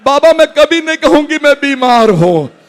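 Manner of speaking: a hint of a small girl's voice, rising at the end; lightly voiced daughter begging her father; gentle voice of a sick girl to her father; sick daughter pleading. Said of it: "कहते जनाब फातिमा सुगरा के".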